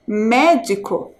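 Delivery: "médico" slowly, with a strong MÉ; stress on first syllable. Shown as a demonstration. Teacher shows pupils the strongest syllable, MÉ in "médico" stressed. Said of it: "é o me".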